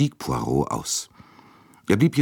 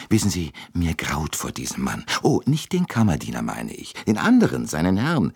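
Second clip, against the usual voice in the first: chatty American lady; 2 semitones higher than usual. Acted. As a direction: gush over her like a busybody matron. Mrs Hubbard gossips to Poirot.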